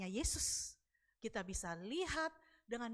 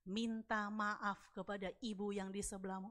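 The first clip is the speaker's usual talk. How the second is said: slow, slightly lowered voice of conscience; inner voice; 4 semitones lower, 4 dB quieter than usual. Retold or imitated. Inner voice urging an apology, slow and measured. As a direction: speak slowly, as a calm prompting within. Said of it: "ada suara di hati saya bilang gini".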